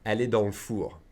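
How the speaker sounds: "le" clipped to a bare L in "dans le four"; fast casual pronunciation. Shown as a demonstration. Teacher showing students fast speech, "le" shortened to L. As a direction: run "dans le four" together as dans l'four. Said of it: "pronounce the le as an L apostrophe".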